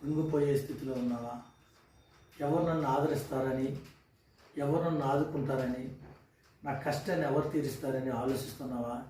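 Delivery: tender preacher's consolation; gentle consoling sermon. Acted. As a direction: speak softly to a troubled listener. Soft consoling sermon opening.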